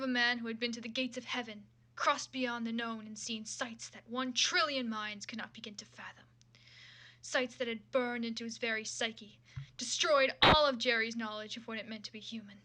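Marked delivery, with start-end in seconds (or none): 2.0-12.6 hushed, breathy whisper for the awe; dramatic whisper. Acted. Reader hamming up Jerry's cosmic vision in a whisper. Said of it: "the delivery on the last part was fucking awful".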